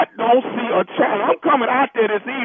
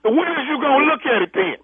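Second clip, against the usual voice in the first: loud, impatient demand; yelling; 2 semitones higher, 4 dB louder than usual. Real, not acted. Angry nephew yelling over the phone at the funeral director, loud. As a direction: push it at him, fed up. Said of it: "Reggie, if you keep yelling".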